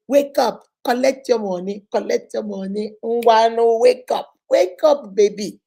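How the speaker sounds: loud chanted wake-up call; quoting a singer. Retold or imitated. Speaker quotes a song at the deluded woman, loudly. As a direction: belt out the lyric like a rallying cry. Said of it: "What did my singer say?".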